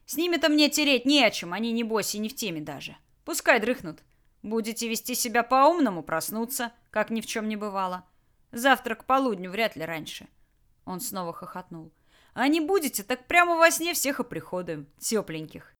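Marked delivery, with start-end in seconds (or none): 0.1-10.3 a hint of a menacing thug, louder; lazy threatening boss voice; gruff bandit boss. Bandit Tolyan threatens captives. 12.3-15.8 a hint of a menacing thug, louder; lazy threatening boss voice; gruff bandit boss. Tolyan threatens sleeping men.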